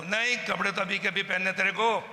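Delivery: mock furious insistence on clothes; rude scolding. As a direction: replay the bullying order with heat. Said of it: "इस भाषा में बात करी".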